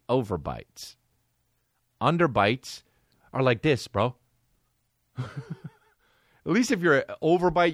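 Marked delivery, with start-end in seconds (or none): 5.2-7.7 laughing through the words; words breaking into laughter. Real, not acted. Laughing while speaking.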